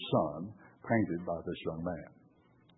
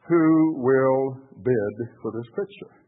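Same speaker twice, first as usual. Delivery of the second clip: lightly voiced auctioneer, slow call; drawn-out question to the auction room; 3 semitones higher, 5 dB louder, slower than usual. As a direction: call slowly for opening bids. Auctioneer opens the bidding.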